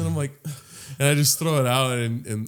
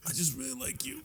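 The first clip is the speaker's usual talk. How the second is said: much softer, high put-on voice; mock tender; 8 semitones higher, 16 dB quieter than usual. Pretending to answer a purring partner, mock-tender hush. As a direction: breathe it sweetly, mock-romantic. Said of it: "I'd be like".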